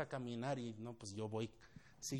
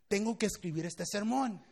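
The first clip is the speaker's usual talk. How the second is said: raised, louder mock exasperation; frustrated; 6 semitones higher, 6 dB louder than usual. Pastor inwardly protesting he must write his sermon, mock frustrated. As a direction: protest that you are being kept from work. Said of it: "Ya estaba frustrado".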